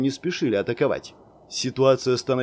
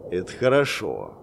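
relieved sigh; 6 semitones lower than usual. A narrator's reading. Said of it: "облегчённо вздохнул варвар".

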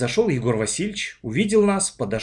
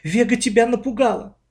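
shocked; 10 semitones higher, 3 dB louder than usual. A narrator's reading. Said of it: "всплеснула руками".

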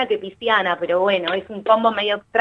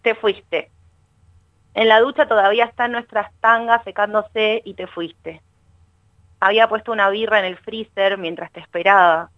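measured, unhurried poem recital; poem reading. Acted. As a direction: read the lines as your own heartbreak poem, pausing between them. Reads her poem aloud. (lectura de poema, pausada y sentida)

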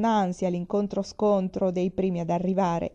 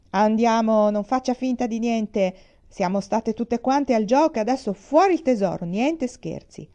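demanding shout; 4 semitones higher, 4 dB louder than usual. Acted. Customers demanding treasure from director.

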